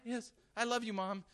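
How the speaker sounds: high, mock-sweet child's reply; devoted child. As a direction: play the too-obedient kid. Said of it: "Do you sit there and go".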